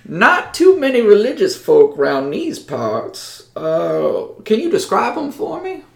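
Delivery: a high-voiced hick who sizes up strangers; Cleftus.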